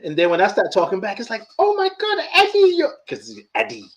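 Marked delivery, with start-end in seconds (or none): 1.6-2.9 high-pitched mock astonishment; amazed exclamation. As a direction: exclaim in disbelief, voice shooting up. Acting Michael's astonishment.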